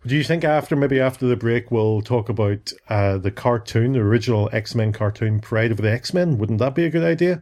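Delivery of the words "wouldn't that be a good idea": bright, quick coaxing question. Acted. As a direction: sell the idea eagerly. Coaxing co-host repeatedly.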